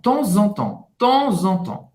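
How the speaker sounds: "Temps en temps" linked with a Z before "en"; com ligação. Shown as a demonstration. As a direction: join "Temps en" as "ton-zan", last "temps" ending nasal. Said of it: "tem uma até ligação". ("Temps en temps" com ligação em som de Z)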